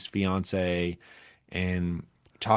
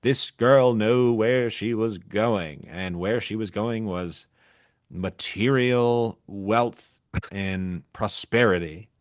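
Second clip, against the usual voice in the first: newsreel narrator; slower than usual. Retold or imitated. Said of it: "fake newsreel".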